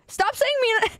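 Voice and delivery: high-pitched whiny complaint; mock exasperation. Streamer to chat spamming the name, mock exasperation. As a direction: protest like you're being pestered.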